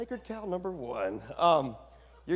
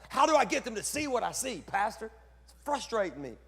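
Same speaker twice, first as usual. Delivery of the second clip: retold plea; 4 semitones higher than usual. Retelling his plea to pastor.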